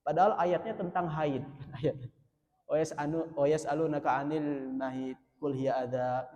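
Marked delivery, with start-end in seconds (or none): 2.7-6.3 mock tearful recitation. Imitating an imam crying over an unrelated verse, mock tearful recitation. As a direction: imitate a reciter weeping, only half-heartedly. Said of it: "Itu nangis".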